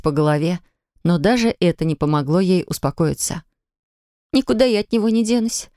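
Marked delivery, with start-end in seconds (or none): 4.3-5.7 higher, hopeless cry; desperate exclamation. Acted. Polina crying to grandma, desperate and higher. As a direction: throw it out in despair. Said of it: "воскликнула Полина с отчаянием".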